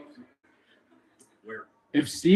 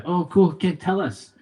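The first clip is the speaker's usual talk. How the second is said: higher-pitched, lightly acted eagerness; eager listeners; 5 semitones higher than usual. Pub crowd urging him to show his Afrikaans, mildly excited. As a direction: play an intrigued listener, pitch up.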